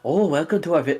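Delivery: put-on hint at an Asian accent, half-hearted; Asian accent attempt. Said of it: "different culture of Asian cultures".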